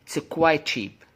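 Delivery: QUITE said as "kwai", running into CHEAP; linked, T dropped. Shown as a demonstration. Teacher modelling linking, QUITE CHEAP smooth without the T. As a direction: glide from QUITE into CHEAP with one CH sound. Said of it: "انت بتحذف تي".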